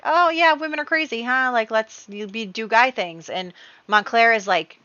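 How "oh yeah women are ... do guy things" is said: hammed-up matey, much higher and louder at the start; blokey buddy voice. Husband sucking up to Richard, overeager mock-matey voice. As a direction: play the pally guy's guy, overeager. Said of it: "go over to Richard and be like".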